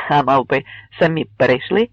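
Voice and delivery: plain reading voice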